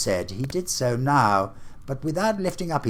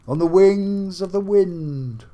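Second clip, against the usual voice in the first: higher, louder, lamenting spirit; anguished ghost; 10 semitones higher, 8 dB louder than usual. Acted. Marley's ghost laments to Scrooge, anguished and loud. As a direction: wail your endless doom. Ghost speaks in read story.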